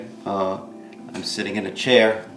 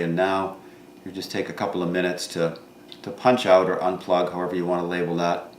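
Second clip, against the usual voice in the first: calm meditation guide with long pauses; guided meditation; 4 dB quieter than usual. Real, not acted. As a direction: guide listeners gently inward, pausing between thoughts.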